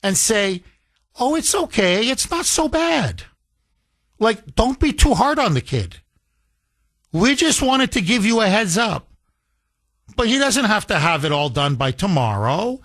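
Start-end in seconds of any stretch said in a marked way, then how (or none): 1.2-12.8 mock lenient teacher. Father imitating the gentle teacher's reply, lightly higher. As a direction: play the soothing teacher, lightly. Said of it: "The teacher will write back".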